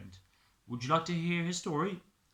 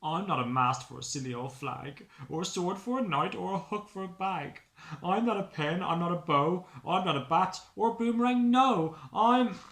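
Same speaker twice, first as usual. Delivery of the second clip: rising, louder frustrated list; exasperated Stickman; 4 semitones higher, 7 dB louder than usual. Acted. Stickman protests every wrong use, growing exasperated. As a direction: build the indignation to the end.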